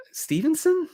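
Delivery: high disbelieving Stevenson; incredulous question. Real, not acted. Host asked to bench a star, incredulous. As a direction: ask it like it's absurd.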